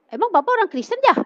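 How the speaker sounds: quick, high-pitched retold question; acted incredulous query; curious questioning. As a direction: fire off a surprised question, pitch leaping up. Acts out her curious question.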